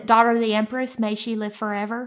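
put-on Texan accent; Texan drawl. Shown as a demonstration. Host tests Seanchan honorifics, Texan drawl. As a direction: recite the title with a Texan twang. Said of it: "a Texan drawl".

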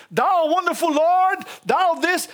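slow, stately mock prayer; lightly mocked old-fashioned piety; King James tone. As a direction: intone it with hammed-up holiness. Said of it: "the King James tone of voice".

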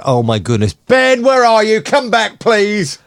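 high-pitched pleading co-host impression; hammed-up desperate calling out. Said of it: "The speaker will be going".

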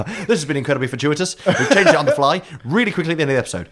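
fast, wired and overexcited; jittery stimulant high. Real, not acted. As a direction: rattle it off like you're coked up. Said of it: "saying it like I'm coked up".

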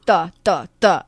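"duh" with the tongue tip touching. Shown as a demonstration. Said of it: "take my tongue and make sure it touches".

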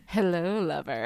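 low, sultry purr; breathy vintage purr. Retold or imitated. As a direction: purr it like a femme fatale. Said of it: "Darla walking in".

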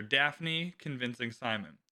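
dramatic book reading with lightly voiced characters; audiobook reading. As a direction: read the chapter like an amateur audiobook narrator. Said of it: "a bad audiobook reader's impression".

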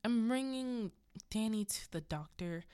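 firm announcement. Retold or imitated. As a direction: imitate a wife calling through the door that she's leaving. Wendy firmly announces she's leaving.

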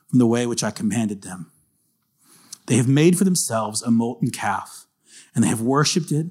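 deliberate Bible reading in measured phrases; scripture reading. A narrator's reading. Preacher reading God's charge against Israel, deliberate and weighty. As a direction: read the verses out with weight, pausing between phrases.

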